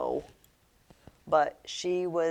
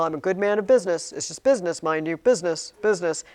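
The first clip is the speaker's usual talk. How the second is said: prim Mr Lorry; 4 dB louder, faster than usual. Retold or imitated. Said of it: "how Mister Lorry is always calling himself".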